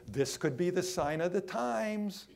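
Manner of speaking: "This could be the sign of the times" lifted like a question. Acted. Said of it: "we sort of say it as a question".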